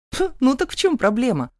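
mock-dismissive snort; snorting dismissively. A narrator's reading. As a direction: wave the problem away. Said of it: "фыркнула я".

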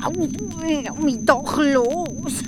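Hans ruft. A narrator's reading. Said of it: "Da ruft der Hans".

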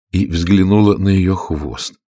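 ordinary delivery

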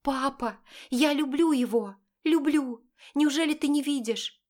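a daughter defending her love to her father; desperate daughter. A narrator's reading. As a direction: beg your father to understand. Daughter pleads.

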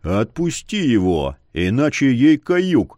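slow, low, threatening command; calm threat from a bandit chief; menacing leader. Acted. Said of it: "велел чернобровый".

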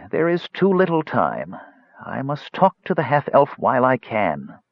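put-on high, pleading old mage; urgent ailing wizard. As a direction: plead for time as a failing wizard. Dying wizard pleads for time.

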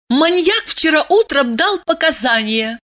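high, triumphant announcement. Acted. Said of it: "торжествуя сообщила она".

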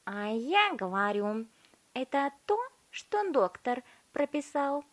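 high, slow chewing retort; smug girl. A narrator's reading. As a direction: brush him off smugly. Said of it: "сказала Виолетта".

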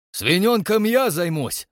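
put-on slow, high old man shout; gruff old man. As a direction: growl out an eager threat. Yegor Kuzmich joins quarrel.

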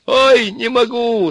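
very high, drawn-out groan; moaning with laughter. A narrator's reading. Ivan groans from inside the oven, moaning. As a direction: wail as if helpless with mirth. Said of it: "стонал Иван".

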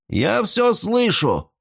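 high, slow call from the kitchen; shouted from the kitchen. A narrator's reading. Cook yelling back across the bar, called out. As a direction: yell it from the next room. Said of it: "закричали из кухни".

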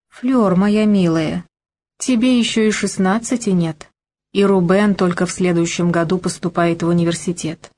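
мягко и неторопливо, успокаивая; медленно, ласково, чтобы смягчить; спокойно. Acted. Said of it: "спокойно произнесла". (спокойный мягкий голос)

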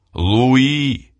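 high, loud cry of despair; desperate shout. A narrator's reading. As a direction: call out a name in despair. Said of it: "в отчаянии крикнул он".

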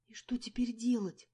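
a frightened, breathless whisper; horrified whisper. A narrator's reading. Narrator whispering to her friend about losing the job, horrified. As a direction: whisper it in dread. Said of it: "с ужасом спросила я".

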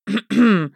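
loud, pointed throat clear; sharp cough to clear the throat. Acted. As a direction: clear the throat before protesting. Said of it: "откашлялся он".

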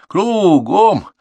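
high, drawn-out parade order; loud sergeant's shout; shouted drill command. A narrator's reading. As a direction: bellow it to a whole squad. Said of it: "Контуженный крикнул".

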